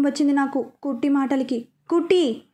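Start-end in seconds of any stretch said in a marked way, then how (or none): 1.9-2.4 mild mock shout of her name. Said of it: "అని గట్టిగా అరిచాను". (తేలికగా గట్టిగా పిలవడం)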